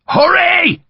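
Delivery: high, loud command; shouted. A narrator's reading. Sharp shouts at his men to hurry, loud and high. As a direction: yell it at the men. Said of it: "he shouted".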